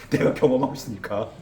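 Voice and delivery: answering through a real laugh; real laugh breaking into the words. Real, not acted. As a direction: chuckle out the punchline. Laughs while answering own question.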